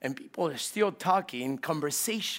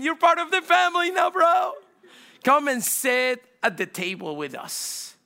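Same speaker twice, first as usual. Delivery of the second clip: excited welcome; 8 semitones higher, 6 dB louder than usual. Retold or imitated. Excited inner voice, shout heard.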